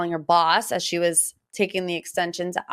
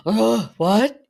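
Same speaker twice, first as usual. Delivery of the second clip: mock shock; 2 semitones higher, 4 dB louder than usual. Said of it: "Kyle's like".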